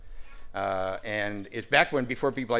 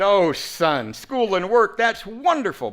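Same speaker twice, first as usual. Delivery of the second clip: laughing, much higher and louder; old-timer laughing at the young man's plan; 9 semitones higher, 10 dB louder, much slower than usual. Retold or imitated. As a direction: chuckle through it, amused. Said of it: "He laughed".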